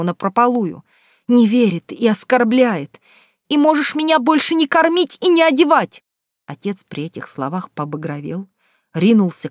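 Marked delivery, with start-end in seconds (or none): 3.5-6.0 much higher, defiant outburst; defiant cry. A narrator's reading. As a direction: fling it at him. Daughter defies father.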